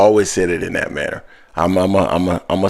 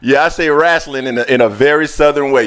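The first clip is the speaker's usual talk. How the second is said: laughing; 7 semitones higher, 5 dB louder than usual. Real, not acted. Host laughs, admitting the accent.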